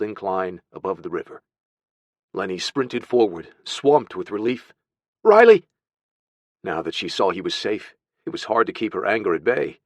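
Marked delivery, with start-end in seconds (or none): 5.2-5.6 high, loud shout of a name; urgent, pitched-up shout; calling out. Acted. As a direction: call out sharply to the runaway child. Calls to missing boy just found.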